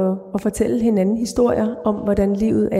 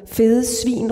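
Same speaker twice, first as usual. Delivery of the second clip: a touch of hateful shouting, only lightly raised; 2 semitones higher than usual. Acted. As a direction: spit out the insult, understated. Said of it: "råber hun, mere hadefuldt".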